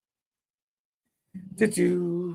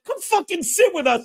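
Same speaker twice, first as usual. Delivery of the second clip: higher, pushier retold demand; mock insistence; 8 semitones higher than usual. Tom insisting Pete join the table, mock insistent and higher. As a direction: lean on it like you won't take no.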